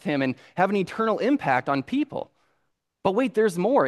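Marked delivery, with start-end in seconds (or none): 3.0-3.9 high, punchy catchphrase; infomercial pitchman. Retold or imitated. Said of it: "annoying guy that talks too loud".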